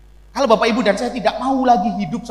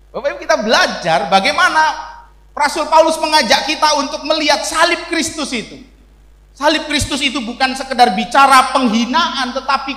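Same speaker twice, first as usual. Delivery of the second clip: preaching shout; 4 semitones higher, 4 dB louder than usual. Real, not acted. Preacher raising voice at congregation.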